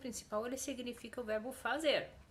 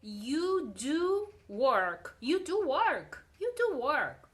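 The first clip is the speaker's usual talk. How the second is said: loud, insistent "do"; stress on DO; 3 semitones higher, 7 dB louder, slower than usual. Shown as a demonstration. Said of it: "faz essa entonação na voz".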